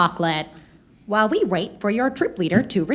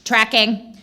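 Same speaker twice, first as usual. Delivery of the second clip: robot alarm. Acted. Park droid alarm.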